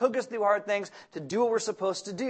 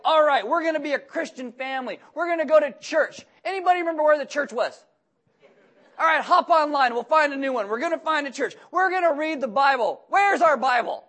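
higher, excited preacher voice rallying his family; fired-up Jacob; 5 semitones higher than usual. Acted. Jacob rallying his household, excited and higher. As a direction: play a freshly fired-up dad. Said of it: "He's like".

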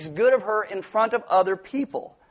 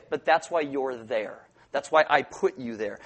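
God's answer; 7 semitones lower, 4 dB quieter than usual. Retold or imitated. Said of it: "God will say".

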